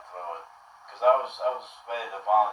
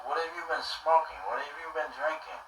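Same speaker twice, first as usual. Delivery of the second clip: higher-pitched imitation of the grilling homeowner; suspicious homeowner; 6 semitones higher, 5 dB quieter than usual. Homeowner grilling the soaked boy, in a raised mimicking voice. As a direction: ask it up high, mimicking a nosy, baffled man. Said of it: "He goes".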